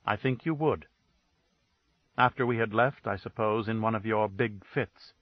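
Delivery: icy, level accusation; dead flat tone. Acted. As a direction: say it cold and dead, no colour at all. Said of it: "dead, flat tone that froze the air".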